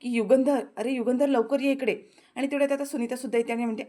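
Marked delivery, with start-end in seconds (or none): 0.1-1.9 हलका आरडाओरडा. Retold or imitated. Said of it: "जोरजोरात सगळ्यांना आता आरडाओरडा".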